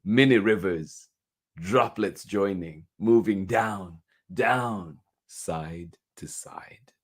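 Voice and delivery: slow, measured read-aloud with stressed key words; picture-book reading. A narrator's reading. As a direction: read it to little children, savouring each phrase. Reads picture book to children.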